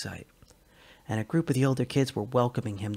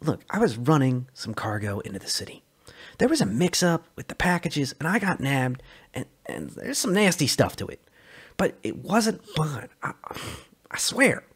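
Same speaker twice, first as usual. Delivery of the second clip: nervous Sully; 4 semitones higher than usual. Acted.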